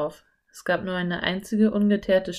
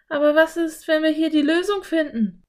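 put-on higher, bright little girl suggesting; girl voice, keen to go in; eager Anne; 9 semitones higher, 4 dB louder than usual. A narrator's reading. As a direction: voice the curious girl, pitched up. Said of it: "fragte Anne".

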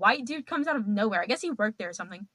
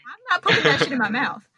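laughing refusal; 7 dB louder than usual. Retold or imitated. Refusing chewed plant, laughing.

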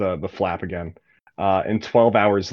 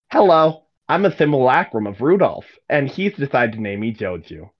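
put-on halfling boy; 4 semitones higher than usual. Simulacrum halfling boy introduces himself.

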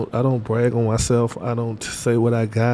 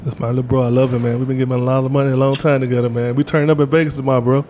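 loud to the phone; 5 dB louder than usual. Real, not acted. Talking loudly to the phone.

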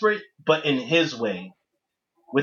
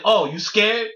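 gloating villain. Retold or imitated. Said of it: "He's, he's gloating".

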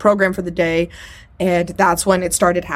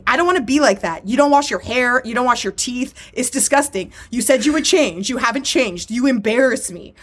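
higher-pitched mock telling-off; imitated scolding; 3 semitones higher than usual. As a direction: berate them like a fed-up partner, retold. Retells woman berating her partner.

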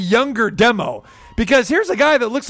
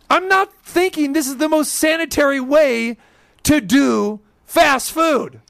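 indignant; 5 semitones higher than usual. Real, not acted. Indignant punchline to audience.

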